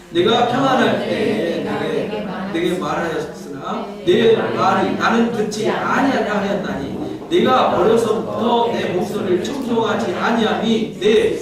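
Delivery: slow, solemn reading of the verse; measured pulpit scripture reading. Acted. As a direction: read it out like holy writ.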